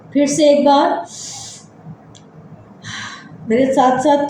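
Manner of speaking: measured relaxation-exercise voice with long pauses; guided meditation. Acted. Leads breathing body-scan relaxation.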